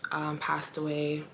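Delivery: whispered through real grief; teary whisper. Real, not acted. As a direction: let the words almost vanish, holding back tears. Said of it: "I get teary-eyed".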